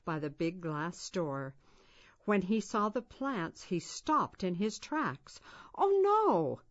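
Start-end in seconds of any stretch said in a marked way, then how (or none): 5.8-6.6 high, loud cry of dismay; a boy's shocked cry, pitched up high. A narrator's reading. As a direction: gasp it out as you see the ruined plants. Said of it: "he cried".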